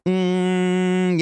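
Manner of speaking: long buzzing nasal hum; nasal hum demo. Shown as a demonstration. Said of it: "if you go like that".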